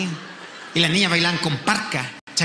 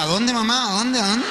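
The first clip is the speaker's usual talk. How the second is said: put-on eager teen; 3 semitones higher than usual. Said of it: "Yo decía".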